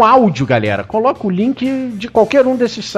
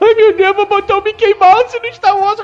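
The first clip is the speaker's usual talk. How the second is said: mock whiny crying, pitched much higher; 13 semitones higher than usual. Host mocks the people who complained about his opinion, mocking whiny crying complainers. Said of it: "reclamando, chorando".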